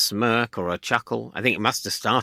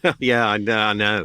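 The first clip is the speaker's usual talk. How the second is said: warm, agreeing sympathy; sympathetic. Retold or imitated. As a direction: show you share the trouble. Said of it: "the way you show yourself not to be an arsehole".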